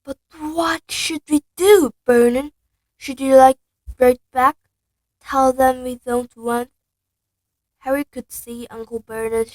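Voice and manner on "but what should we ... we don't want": Petunia anxious. Acted. Nervous wife asking her husband what to do. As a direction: beg him for a plan.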